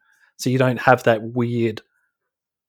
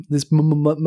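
syllable scramble; 2 semitones higher than usual. Real, not acted. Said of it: "I'm like, uh, Michael Palin from A Fish Called Wanda".

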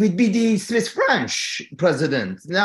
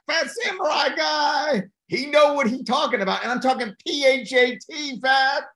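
hyped shout-out; 6 semitones higher than usual. Real, not acted. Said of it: "I'm going with you".

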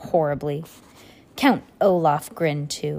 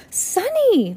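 high, drawn-out exclamation of the name; scolding cry; 4 dB louder than usual. A narrator's reading. Violet to her sister who bit the doctor, scolding cry. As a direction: cry out sharply at a misbehaving little one.

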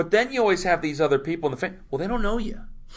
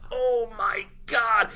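mock shock; 8 semitones higher, much slower than usual. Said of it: "And we're going".

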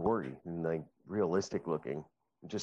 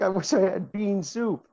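very high, loud mock holler; slow comic wail building to a drawn-out battle cry; hammed-up yell; 12 semitones higher, 9 dB louder, slower than usual. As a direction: imitate a ridiculous character yelling. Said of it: "He yelled".

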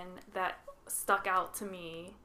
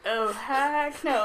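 mock indignant refusal; 4 semitones higher, 7 dB louder, much slower than usual. Acting out their indignant reaction.

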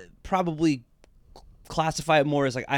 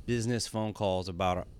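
ironic, almost sarcastic; 5 semitones lower, 4 dB quieter than usual. Real, not acted. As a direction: trail off softly with deadpan irony. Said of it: "almost ironically or sarcastically".

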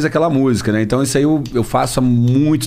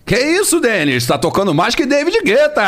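DJ drop voice; 11 semitones higher than usual. Retold or imitated. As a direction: call it out like a funk DJ tag. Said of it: "Qual que é a mais escrota".

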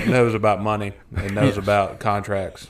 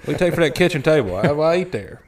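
higher-pitched indignant homeowner bit; mock protest; 6 semitones higher, 4 dB louder than usual. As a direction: act put out by a nosy buyer. Acts out yard-sale haggling.

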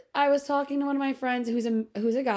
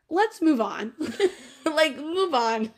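laughing; 6 semitones higher, slower than usual. Real, not acted.

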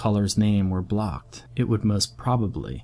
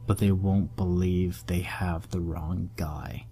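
whispering; 4 dB quieter than usual. Acted. Whispered end of quote.

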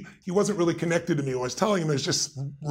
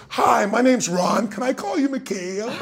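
Reagan; 8 semitones higher, 4 dB louder, slower than usual. Retold or imitated. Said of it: "turned back around and goes".

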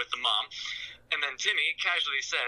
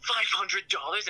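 higher, slower, outraged at the price; mock shock; 7 semitones higher, slower than usual. Man in the closet balking at Timmy's price, mock shock. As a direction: drag out the disbelief up high.

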